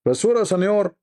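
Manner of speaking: neighbor's voice. Retold or imitated. Neighbor voiced in retold story.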